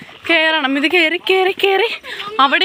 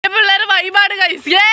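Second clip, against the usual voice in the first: excited shout; 6 semitones higher, slower than usual. Real, not acted. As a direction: whoop it up with the gang. Cheering with friends on dam.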